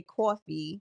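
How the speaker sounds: "coffee" with a rounded aw, "cawfee"; New York "coffee", rounded first vowel; New York pronunciation. Shown as a demonstration. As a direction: say "coffee" the New Yorker way, as "caw-fee". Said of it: "if you're a New Yorker".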